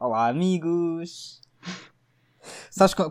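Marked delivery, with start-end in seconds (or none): 0.0-1.4 fake, fluffy, cutesy, sugary voice. Greeting the listeners and the co-host: put-on cute voice. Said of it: "Com esta voz assim, fofa".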